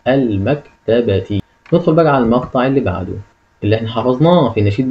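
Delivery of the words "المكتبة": المكتبة read very slowly with every syllable drawn out; slow full reading. Shown as a demonstration. Teacher reading the whole word slowly for pupils. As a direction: draw out المكتبة for the class.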